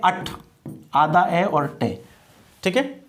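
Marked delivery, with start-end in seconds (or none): 0.0-0.3 "अट" with a short schwa and final T; weak "-ate" ending. Shown as a demonstration. Teacher shows the noun ending, "अट" as short "ut". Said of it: "उसको क्या बोलते हैं?".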